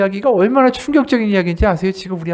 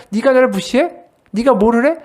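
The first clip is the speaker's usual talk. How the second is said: higher, louder offended snap; indignant retort; 3 semitones higher, 4 dB louder than usual. Acted. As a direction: bristle at being slighted. Angry self-righteous believer quoted. (무시당했다고 느끼는 사람의 화난 반박)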